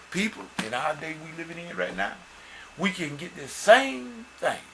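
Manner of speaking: emphatic sermon appeal; earnest preacher's rallying delivery; preaching exhortation. Real, not acted. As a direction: urge the congregation on, leaning on key words. Exhorts the congregation.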